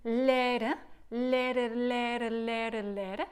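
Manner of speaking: lere said slow, tongue flapping; double tongue lere. Shown as a demonstration. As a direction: demo lere, lere over and over. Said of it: "The first one would be lere".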